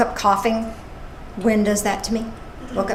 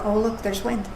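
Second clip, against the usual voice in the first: soft, easy, accepting; calm observer; 2 semitones lower, 8 dB quieter than usual. Pretend. Speaker showing her grateful self noticing wind, softly calm. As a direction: say it like a peaceful observer. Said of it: "Rather than".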